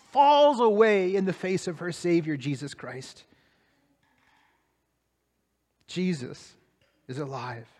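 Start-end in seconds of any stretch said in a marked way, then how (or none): 2.4-7.7 softer, lower reverent statement; quiet, awed proclamation; hushed awe. Real, not acted. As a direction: let it land in a hush. Hushed climax after joy.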